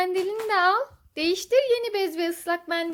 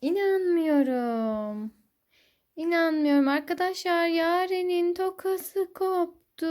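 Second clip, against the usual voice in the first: slow, drawn-out mock disbelief; playful dismay; slower than usual. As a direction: stretch the words in pretend dismay. Mock dismay at broken hair clip.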